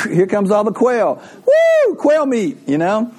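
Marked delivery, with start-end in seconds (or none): 1.4-2.7 very high, loud squeal of delight; mock delighted whoop. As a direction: cheer like a kid at dinner. Israelites thrilled by quail.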